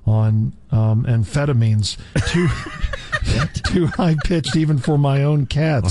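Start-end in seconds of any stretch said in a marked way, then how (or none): 2.3-5.9 laughing while reading. Real, not acted. Laughing through the line.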